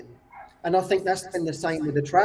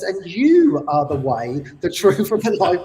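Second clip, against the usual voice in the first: louder declaration; 5 dB louder than usual. Retold or imitated. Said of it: "And then he says".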